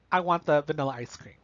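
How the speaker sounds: firm and decided; confident. Shown as a demonstration. Teacher demos the sure answer, firm. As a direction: state it like you know what you want. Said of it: "it sounds like you know exactly what you want".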